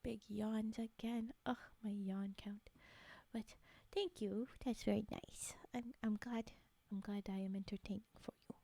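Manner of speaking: breathy close-mic whisper. Real, not acted. ASMR whispering throughout.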